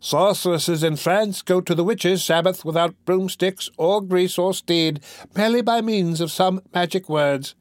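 high, held falsetto lecture. A narrator's reading. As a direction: pitch it up high like a reedy-voiced duke. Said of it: "in a falsetto voice".

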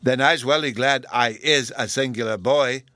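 put-on punched-out little-boy declaration on "I is a singular boy"; childlike emphasis all through "Then I's welly glad"; great emphasis. A narrator's reading. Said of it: "said with great emphasis".

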